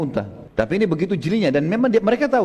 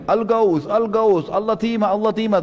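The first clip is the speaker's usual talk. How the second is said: higher calls for help and attack; crying for help; 6 semitones higher, slower than usual. Retold or imitated. Damdam crying before the Quraysh chiefs, high alarmed calls. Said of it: "Teriak-teriak lagi".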